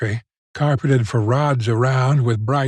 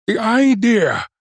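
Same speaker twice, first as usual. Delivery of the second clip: high, drawn-out exclamation of outrage; indignant shout; 9 semitones higher, slower than usual. A narrator's reading. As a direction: cry out, scandalized, without much extra volume. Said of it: "he shouted".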